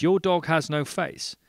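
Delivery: high, loud astonished echo; acted incredulity. Barman echoing man about faceless dog, incredulous. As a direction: throw it back in mock disbelief.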